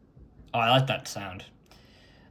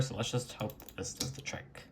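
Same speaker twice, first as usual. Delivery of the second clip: whispered hope; 12 dB quieter than usual. Real, not acted. Hoping the install works.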